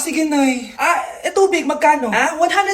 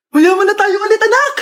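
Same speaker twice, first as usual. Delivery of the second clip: joyful cry; 4 semitones higher than usual. Acted. Mother rejoices winning again.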